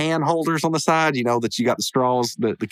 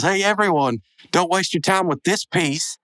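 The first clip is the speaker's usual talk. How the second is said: higher, slow mock holler to the crowd; 6 semitones higher than usual. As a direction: call out to the whole store. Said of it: "then he hollers out".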